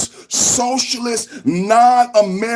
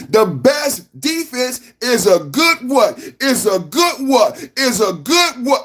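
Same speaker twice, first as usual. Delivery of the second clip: teasing prompt; 3 semitones higher, slower than usual. Shown as a demonstration. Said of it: "prompting chat to finish phrase".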